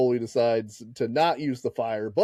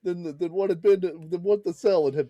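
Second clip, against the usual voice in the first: higher, fast and touchy; huffy mock defensiveness; 4 semitones higher than usual. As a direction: snap back, wounded pride. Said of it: "acted quarrel in roles".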